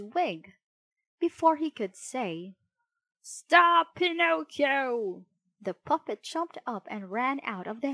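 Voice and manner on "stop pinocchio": loud, high, drawn-out shout; urgent storybook shout; calling out. A narrator's reading. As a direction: yell after a runaway child. Geppetto calls after fleeing puppet.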